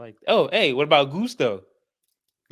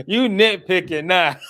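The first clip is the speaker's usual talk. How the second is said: laughing tease; 5 semitones higher than usual. Real, not acted. Teasing friend, laughing.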